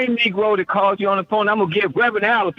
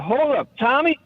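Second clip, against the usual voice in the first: quoting Rev; 4 semitones higher than usual. Retold or imitated. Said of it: "Rev was the one who said".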